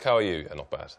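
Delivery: British exchange. Retold or imitated. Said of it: "that's quite British".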